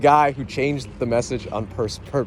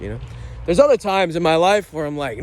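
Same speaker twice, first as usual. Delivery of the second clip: ordinary delivery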